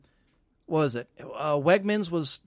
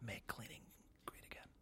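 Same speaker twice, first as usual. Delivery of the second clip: wicked stepmother; 5 semitones lower, 28 dB quieter than usual. Pretend. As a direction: hiss orders like a cruel stepmother. Stepmother voice continues.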